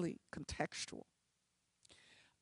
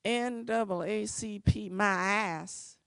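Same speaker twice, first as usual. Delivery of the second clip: scornful retort; 3 semitones higher, slower than usual. Retold or imitated. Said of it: "stands up and she says".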